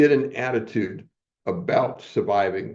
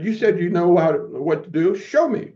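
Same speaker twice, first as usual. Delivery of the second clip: high, pushy challenge from an in-your-face teacher; teacher's challenge; 7 semitones higher, 4 dB louder than usual. Retold or imitated. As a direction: dare him, rising sharply to a high Show me. Teacher confronts him in his face.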